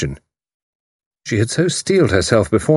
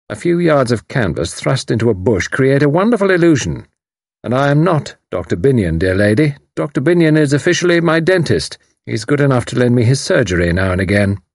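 lightly voiced commander, higher and louder, gloating; enjoy revealing the trick; smug commander; 6 semitones higher, 3 dB louder than usual. Haydock explains the ruse.

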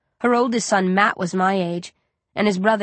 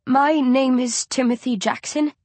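squeaky posh voice; 5 semitones higher than usual. Acted. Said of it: "he squeaks".

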